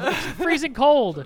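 loud, slow, drawn-out protest; loud complaint. Real, not acted. Diner protests over his cold meal, loud and slow. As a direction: stretch every word out loud.

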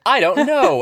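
high, loud flustered squeak; awkward squeak. Pretend. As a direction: blurt it out in panic. Caught out, awkward reply.

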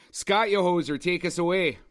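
put-on Canadian hoser accent. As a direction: hand over in a mock Canadian hoser accent. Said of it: "gonna fucking do that accent the whole movie".

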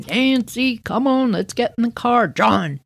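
dad rounding everyone up, lightly voiced; dad calling out. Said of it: "Dad's calling Nancy".

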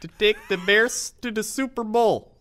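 high, loud, slow hammed-up fan rant; sports radio caller. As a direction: belt it like a frantic call-in fan. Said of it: "They're just like".

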